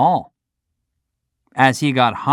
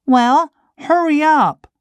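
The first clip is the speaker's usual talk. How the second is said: high, loud, impatient demand; impatient puppet; 4 dB louder than usual. Acted. Pinocchio impatient with the cricket's lecture, high and pushy. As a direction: hurry the cricket along.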